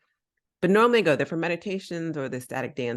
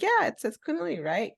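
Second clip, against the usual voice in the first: high, sweetly innocent question; mock innocent; 12 semitones higher than usual. Only person of color answers the stares, mock innocent. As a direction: play dumb, pitch up. Retold reply to hostile class.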